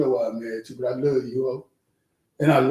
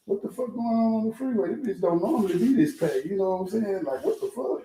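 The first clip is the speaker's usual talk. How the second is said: higher, bemused voice breaking into a laugh; imitating Trap; 5 semitones higher, 4 dB quieter than usual. Retelling Trap's reaction on the jammed freeway, amused mock voice. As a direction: play Trap, confused by the packed freeway, laughing. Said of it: "Trap was just on some shit like".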